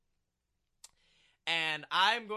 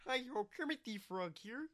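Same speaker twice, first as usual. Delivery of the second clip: a hint of a squeaky puppet frog; Kermit the Frog voice; 2 semitones higher than usual. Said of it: "I want to play him as Kermit the Frog".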